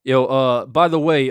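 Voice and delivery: grab the chat's attention; calling out. Real, not acted.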